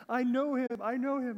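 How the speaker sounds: high, loud excited gush; freaking out. Retold or imitated. Pastor acting Buddy the Elf thrilled about Santa, high excited gush. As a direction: blurt it out, giddy and starstruck. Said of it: "And he's just freaking out".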